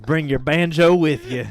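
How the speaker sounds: loud, hammed-up Southern accent; playful backwoods Southern accent. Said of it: "Southern Gothic".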